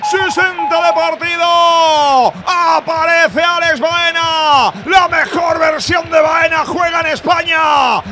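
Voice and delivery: slow, high, loud shouted recap; breakneck goal commentary. Real, not acted. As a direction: bellow each phrase, drawn out. (recapitulación gritada y lenta)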